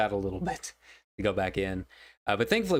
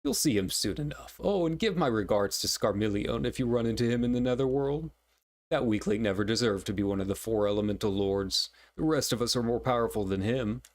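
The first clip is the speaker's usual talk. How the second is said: lightly voiced sneering villain; a hint of a smug villain.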